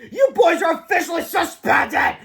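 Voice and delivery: high, loud gloating scold; stern principal. Acted. Mister Crump scolding the boys in a high, loud gloat. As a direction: lord it over them.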